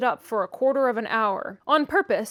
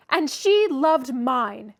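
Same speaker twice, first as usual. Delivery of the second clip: slow, loud taunt; taunting boy; 3 semitones higher, 6 dB louder, much slower than usual. A narrator's reading. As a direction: drawl it out to hurt. Linton taunting.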